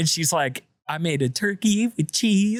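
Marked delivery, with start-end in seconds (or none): 0.9-2.6 quavering, trembling, shaky voice, pitched up. Retelling a mother answering her son, imitating her shaky voice. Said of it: "she's like kind of shaky voice".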